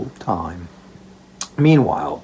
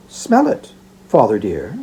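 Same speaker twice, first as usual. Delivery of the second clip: playful Meg; 3 semitones lower than usual. Acted. Meg teasing with basket.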